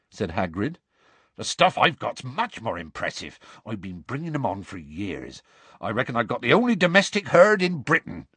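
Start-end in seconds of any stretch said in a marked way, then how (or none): 1.4-8.3 lightly voiced boastful rustic, rising at the end; mild, growing pride; proud gamekeeper. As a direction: boast of your prized animals. Voices Hagrid.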